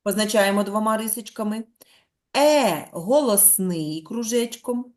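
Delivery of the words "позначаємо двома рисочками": normal talking voice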